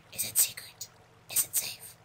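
unvoiced creepy whisper; 1 whispered mock question. Gamer whispers to himself about safety, mock whisper. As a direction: hiss it like a secret.

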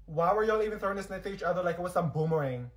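usual speaking voice

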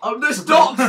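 high, loud, through laughter; laughing protest. Real, not acted. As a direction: cry out while cracking up. Protesting while everyone laughs.

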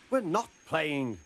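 high, slow, indignant denial; protesting. A narrator's reading. Bill answers Edward's charge of playing, protesting. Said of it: "protested Bill".

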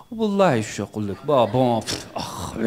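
fast, trailing filler noises; mock a speaker stalling with fillers; imitating a hesitant speaker at the mic; rambling fillers. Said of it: "just speaking like that".

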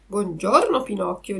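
plain reading voice

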